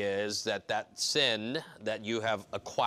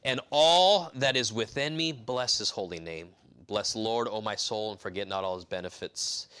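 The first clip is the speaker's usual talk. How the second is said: scripture reading. Shown as a demonstration. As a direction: read it as solemn scripture. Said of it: "verse number one".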